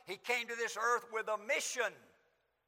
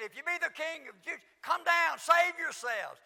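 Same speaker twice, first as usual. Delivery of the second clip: taunting crowd; 5 semitones higher than usual. Acted. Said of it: "They said".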